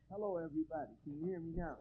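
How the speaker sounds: distant caller on a bad line; phone voice. Real, not acted. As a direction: speak through a phone line.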